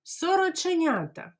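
teacher says Сороченята fast; quickly. Shown as a demonstration. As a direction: toss it off quickly. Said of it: "А тепер швиденько".

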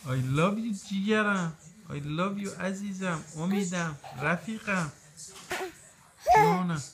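tender soothing. Real, not acted. Father soothing crying baby.

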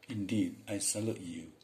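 ordinary talk, nothing marked

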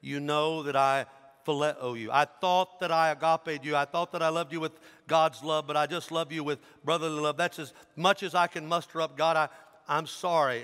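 pleading, halting apology; understated acted anguish; breaking down. Disciple admitting his lesser love to Jesus, mildly anguished. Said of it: "he starts breaking down".

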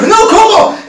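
high, loud, laughing; stunned disbelief. Retold or imitated. Hearing he was pranked, high and stunned. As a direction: choke out the disbelief. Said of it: "Y le digo".

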